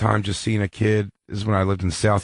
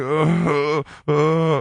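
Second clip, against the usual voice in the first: imitated kid's pained whimpers, pitched up; mock whimpering; 5 semitones higher, much slower than usual. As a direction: whimper like a hurt kid trudging home. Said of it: "the fat kid whimpery of".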